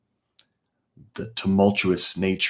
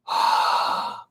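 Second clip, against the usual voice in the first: closed-mouth ocean-sound breath from the throat; the same throaty exhale with sealed lips; Ujjayi breath; 3 dB quieter than usual. Shown as a demonstration. Teacher showing Ujjayi to class: closed-lip throat breath. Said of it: "but just do it with closed mouth".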